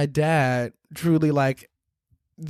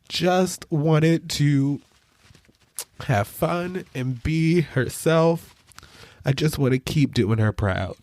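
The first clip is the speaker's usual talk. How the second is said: tearing up. Real, not acted. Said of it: "I'm getting emotional".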